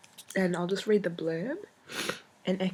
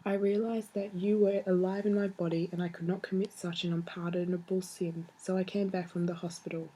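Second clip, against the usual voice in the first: tender, steady letter reading; reading a letter aloud. Shown as a demonstration. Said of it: "I'll read you one".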